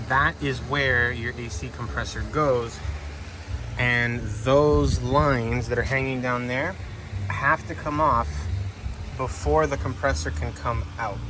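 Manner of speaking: talking over a loud fan. Real, not acted. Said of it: "I'm sorry about the fan".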